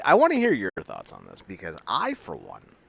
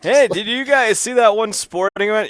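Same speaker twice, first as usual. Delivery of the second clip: mock wholesome fifties guy; 9 semitones higher, 5 dB louder than usual. Acting out polite security guys.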